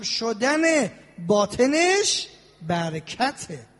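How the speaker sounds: slow pleading prayer, drawn out; prayerful supplication. Acted. Preacher praying for the congregation's hearts, slow and pleading. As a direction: plead with God slowly and fervently.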